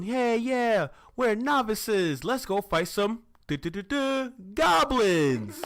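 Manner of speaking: hyped-up, high, loud rookie cheer; gung-ho and high, building to a battle cry; eager novices. Acted. Eager novices setting off to fight goblins, mock-excited.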